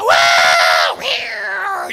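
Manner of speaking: John and the wildcat tangling, yelp and roar. Retold or imitated. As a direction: act out the fight in the tree. John and cat fighting.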